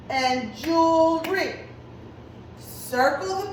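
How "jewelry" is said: measured, stretched syllables in "jewelry"; clapped-out syllables. Shown as a demonstration. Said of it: "we're gonna clap it out".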